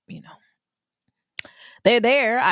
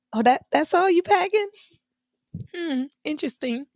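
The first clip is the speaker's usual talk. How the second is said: judgmental; 10 semitones higher than usual. Retold or imitated. Judging a light packer.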